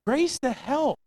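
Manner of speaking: lifted, hushed repeat of Grace to help; echoed response. Shown as a demonstration. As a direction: repeat it back gently as the congregation's answer.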